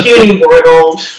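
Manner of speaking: slow mocking overlord voice; lightly voiced alien tyrant sneering at mortals; booming arrogant alien overlord. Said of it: "There we go".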